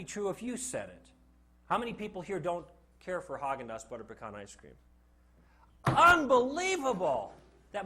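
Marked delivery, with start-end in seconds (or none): 5.9-7.3 slow, loud, high exclamation of disbelief; mock disbelief. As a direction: act theatrically shocked that anyone dislikes it. Mock disbelief at class's answer.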